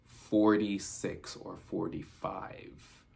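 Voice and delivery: slow, stretched "forty-six or forty-five"; dragged slowly, unsure; drawn-out recall. Shown as a demonstration. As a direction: draw out "forty-six" like reading a blurry number. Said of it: "this is where I seen".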